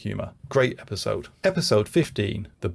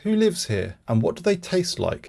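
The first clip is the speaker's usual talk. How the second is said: scary demonic voice; 7 semitones higher than usual. Retold or imitated. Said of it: "talks in a scary, demonic voice".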